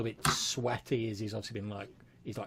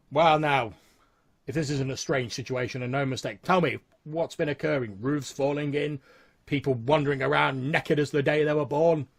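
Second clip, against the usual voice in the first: higher, louder lawman taking stock; disapproving sheriff; 4 semitones higher, 8 dB louder than usual. Acted. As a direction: demand an account of the strange goings-on. GM voices the sheriff.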